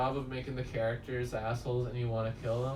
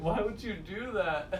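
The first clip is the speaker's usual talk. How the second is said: lightly repeated bewildered quote; 7 semitones higher than usual. Retold or imitated. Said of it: "that made me laugh when he's like".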